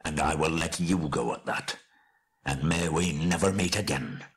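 bitter betrayed king, stern; embittered dwarf pronouncement; grim dwarf lord. Acted. Thorin grimly yields a share.

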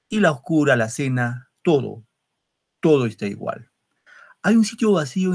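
measured, lingering poem reading; poem recitation. Acted. Teacher reading a nostalgic poem to students, recited.

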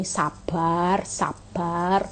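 calm yourself down gently; gentle inner voice. Acted. The spirit calming an angry driver, soft and soothing. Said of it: "roh selalu berbicara gini".

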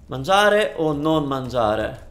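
slow, dramatic Shakespearean delivery. Pretend. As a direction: declaim it like Hamlet. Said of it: "That's my Shakespearean approach".

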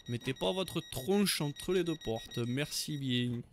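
slow mock southern French announcement; drawn-out south-of-France accent. Conductor warning passengers off the doors, southern French accent. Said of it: "Le mec, il prend l'accent du sud".

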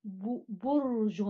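drawn out slowly, sounding out each syllable; slow syllable demo. Shown as a demonstration. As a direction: stretch برج slowly for the class. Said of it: "الكلمة الثالثة برج". (نطق بطيء مقطعًا مقطعًا)

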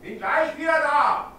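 high shout from off-mic; calling from another room. Real, not acted. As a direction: call it out from far away.

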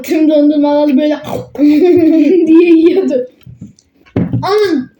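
laughing through the words; can't stop laughing mid-sentence. Real, not acted. Laughing about uncle eating.

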